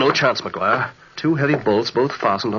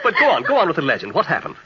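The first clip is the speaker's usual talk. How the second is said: laughing; 3 semitones higher, faster than usual. Acted. Still amused by teasing.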